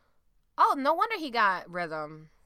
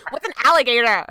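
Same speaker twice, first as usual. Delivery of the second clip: loud, high mocking white American accent; hammed-up white American accent, punched out loud; 5 semitones higher, 14 dB louder than usual. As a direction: exaggerate a white American accent to make fun of it. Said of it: "making fun of my white accent".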